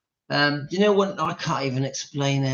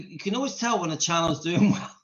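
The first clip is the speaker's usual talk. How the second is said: real laugh bursting in near the end; amused at own remark, losing it; breaking into laughter. Real, not acted. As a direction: start normally, then crack up. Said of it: "I'm just making myself laugh".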